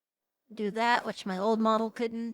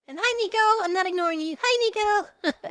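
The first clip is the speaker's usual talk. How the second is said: high, loud cheerful hello; excited greeting; 11 semitones higher, 6 dB louder than usual. Real, not acted. Streamer greets chat member Nico with loud, high excitement. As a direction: call out brightly to a viewer.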